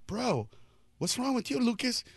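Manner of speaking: concerned. Retold or imitated.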